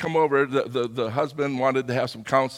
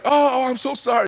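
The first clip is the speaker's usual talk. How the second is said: embarrassed apology; 8 semitones higher, 5 dB louder, faster than usual. Retold or imitated. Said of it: "And he was so embarrassed".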